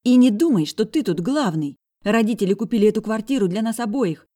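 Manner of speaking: put-on high, loud defiant girl's voice; high loud defiant sister; angry girl. A narrator's reading. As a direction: tell him he's not the boss. Sister argues.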